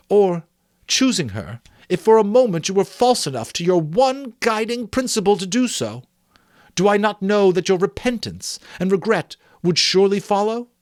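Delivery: Belle, impassioned. Acted. Belle refusing Scrooge, growing impassioned. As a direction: let the conviction swell.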